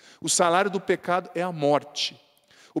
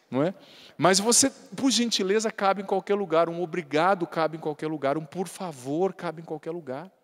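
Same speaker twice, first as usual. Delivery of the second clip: ordinary talk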